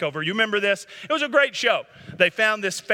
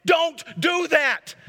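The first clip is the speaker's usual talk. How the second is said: loud, high, forceful rebuke to the congregation; preacher shouting; 7 semitones higher, 3 dB louder, slower than usual. Real, not acted. Pastor shouting at addicts in the pews to quit, loud and high. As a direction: hammer each short command home. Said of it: "I'm not yelling at you".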